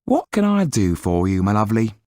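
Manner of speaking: lightly voiced fond landlady; wife turns sweet. Proprietor's wife charmed by Yan, lightly sweet. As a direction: coo at the handsome young man.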